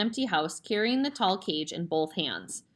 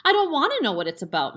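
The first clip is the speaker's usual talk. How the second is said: raised, snappish father's bark; 7 semitones higher, 6 dB louder, faster than usual. A narrator's reading. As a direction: bark it at her, fed up. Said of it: "Mister Wormwood barked".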